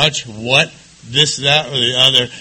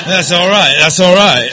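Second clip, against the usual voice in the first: laughing; 5 semitones higher, 8 dB louder than usual. Real, not acted. Calming the laughing crowd.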